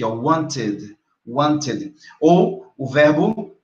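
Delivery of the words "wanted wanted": "wanted" in two syllables, wan-tid. Shown as a demonstration. Teacher contrasts the case, "wanted" said wan-tid. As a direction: sound out the final syllable of "wanted". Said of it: "aqui tá bem pronunciado isso aqui".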